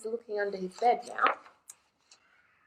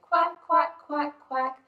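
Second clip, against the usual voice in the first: high, louder quacks; mother duck quacking; 5 semitones higher, 4 dB louder than usual. Acted. Mother duck calling her ducklings, high quacking. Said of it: "Mother duck said".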